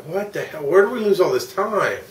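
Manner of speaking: mock outraged what the hell; exasperated disbelief. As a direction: throw up your hands at lost time. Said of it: "So I was like".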